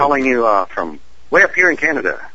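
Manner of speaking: light Canadian accent. Shown as a demonstration. Guest calling the host from up north, light Canadian voice. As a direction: say it with a touch of put-on Canadian accent. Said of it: "That's my Canadian voice".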